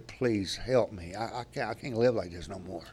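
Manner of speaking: a drinker begging his counselor on the phone for help. Retold or imitated. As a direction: beg quietly for help, worn out. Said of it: "I begged her".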